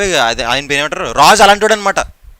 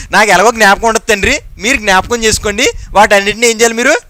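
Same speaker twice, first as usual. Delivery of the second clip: hurried general prayer; 3 semitones higher, 3 dB louder than usual. Retold or imitated. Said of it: "అనేస్తాం".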